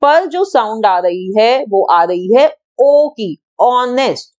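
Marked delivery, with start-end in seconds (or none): 3.6-4.3 "ऑनेस्ट" said "on-est", with no H sound; honest with silent h. Shown as a demonstration. Teacher modelling "honest" for students, "ऑनेस्ट" with a silent H. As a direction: model "ऑनेस्ट" starting on an open "o" vowel. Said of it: "ऐसे हम बोलते हैं इसको ऑनेस्ट".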